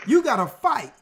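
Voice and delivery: forceful, rising call to fight; rallying call. Real, not acted. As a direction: punch it like a rallying cry. Rallying climax.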